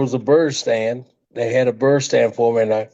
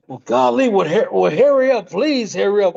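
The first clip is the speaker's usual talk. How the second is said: pitched way up, urgent and begging; hammed-up frantic friend, much higher; mimicking a panicked Pat; 7 semitones higher than usual. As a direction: plead with him to hurry while the bird bites. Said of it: "And Pat go".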